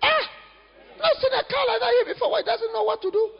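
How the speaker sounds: a hint of a puzzled local spotting a stray; townsperson. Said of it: "Somebody said".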